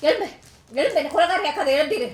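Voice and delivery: repeated orders rising to a scream; angry demand building to shriek. Acted. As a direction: keep ordering until you scream. Wife ordering him up.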